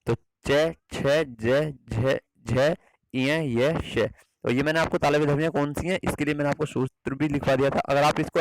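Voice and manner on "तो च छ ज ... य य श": "च छ ज झ य श" each sounded separately; tongue on the palate for "च छ ज झ य श"; palatal sounds demo. Shown as a demonstration. Teacher to students, sounding out "च, छ, ज, झ, य, श" one by one. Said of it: "तालव्य मतलब जब जीभ तालु को छूती है".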